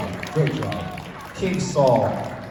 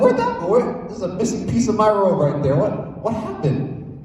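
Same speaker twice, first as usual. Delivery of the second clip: baffled; 5 semitones higher than usual. Retold or imitated. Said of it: "Saul's looking around his robe".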